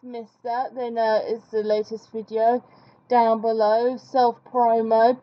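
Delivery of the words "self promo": mock self-promo. Real, not acted. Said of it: "as you do".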